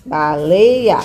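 "Baleia" drawn out, each vowel clear; sounding out. Shown as a demonstration. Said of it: "Tem o som do A".

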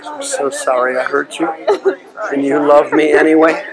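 softly begging forgiveness; soft pleading prayer. Acted. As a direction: hush down and plead with God, near tears. Leads a tearful soft prayer.

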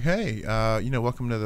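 a lightly voiced monotone host; flat podcaster. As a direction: imitate a bored, lifeless podcast intro. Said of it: "they're all kind of flat".

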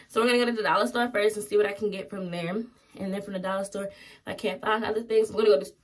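slightly rushed chatter; talking too fast. Real, not acted. Vlogger telling viewers her shopping plan, talking a little too fast. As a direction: run through the plan a bit too quickly. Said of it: "I'm talking too fast".

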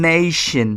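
"নেশন" drawn out slowly with a sh sound. Shown as a demonstration. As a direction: stretch "নেশন", sh in the middle. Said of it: "তালব্য শ use করা হয়েছে". ("নেশন" টেনে, তালব্য শ দিয়ে)

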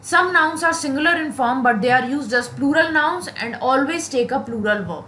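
very slow, word by word rule reading; slow dictation. Acted. Teacher dictating a grammar rule to students, very slowly. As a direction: read the rule so students can write it down.

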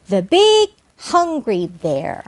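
slow, deliberate model reading; careful teacher's demonstration; phrase-building demo. Shown as a demonstration. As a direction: stretch out each word of the phrase. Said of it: "이렇게 하나에서 여러 개로".

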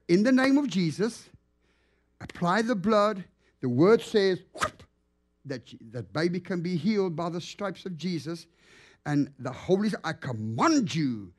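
healing prayer. Retold or imitated. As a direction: pray it with authority over the baby.

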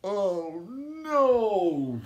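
high, loud laugh then mock alarm. Teacher laughing after the loud pop. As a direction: laugh off the scare.

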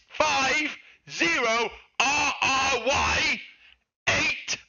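slow, high shouted spelling; angry spelling out. Real, not acted. Streamer shouting the seller name to chat. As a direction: hammer each letter at chat. Furious reading account name again.

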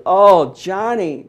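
high, slow, sweet mama voice; mother's voice. Retold or imitated. Son retelling mother's praise, high and drawn out.

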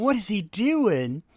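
high, slow, a hint of disbelief; drawn-out puzzled question; mock puzzled. The O'Dares watching Bobo, lightly mock puzzled. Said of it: "We see Matt and Hope going".

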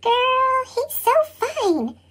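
put-on soft, breathy-free hushed girl gush; softly voiced swooning friend; giggly girls whispering. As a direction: gush about him like a swooning schoolgirl, hushed. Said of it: "Her friends will giggle and whisper".

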